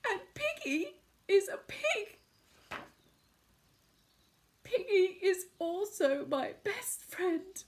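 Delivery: tearful lament. Acted. Gerald laments.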